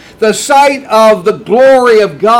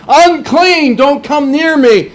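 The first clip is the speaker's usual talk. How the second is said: raised, pleading "Unclean, don't come near me" as a leper; leper's warning cry; 4 semitones higher than usual. Acted. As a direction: call out to keep people away, mildly acted. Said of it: "we must recognize that and say".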